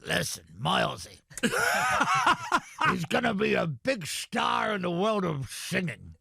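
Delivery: quoting Ben through laughter; can't get it out for laughing; laughing quote. Retold or imitated. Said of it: "Ben said to me".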